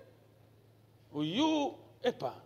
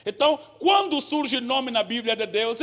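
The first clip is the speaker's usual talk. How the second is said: usual speaking voice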